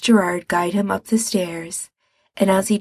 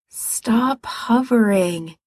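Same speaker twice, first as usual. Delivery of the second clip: wearily; 2 semitones higher, much slower than usual. Acted. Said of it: "he said wearily".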